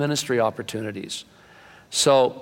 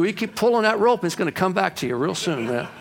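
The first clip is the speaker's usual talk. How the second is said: put-on higher teasing kid voice, delivering the punchline; cocky young man; 6 semitones higher than usual. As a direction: land the joke in the kid's voice.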